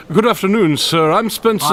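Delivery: high put-on voice. Holmes disguised greeting stranger.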